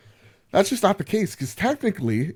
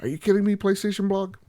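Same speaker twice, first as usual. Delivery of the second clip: higher-pitched incredulous complaint; mock outrage; 5 semitones higher, faster than usual. Host confronts PlayStation Blog over a missing post, mock outraged. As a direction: act put out, can't believe it.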